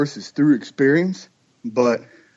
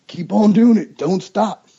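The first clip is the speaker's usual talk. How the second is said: emphatic repeat; 6 semitones higher, 4 dB louder than usual. Shown as a demonstration. Hunter urges his buddy to keep on calling, louder. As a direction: Keep on doing it louder and higher, insisting.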